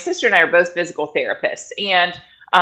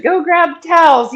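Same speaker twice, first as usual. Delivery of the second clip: higher, louder quick order; urgent command; 10 semitones higher, 5 dB louder than usual. Retold or imitated. Doula ordering the husband to fetch towels, loud and urgent. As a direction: bark the order over the chaos. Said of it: "I'm telling her husband".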